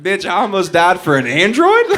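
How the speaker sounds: hammed-up furious question; mock outrage. Outraged retold reaction.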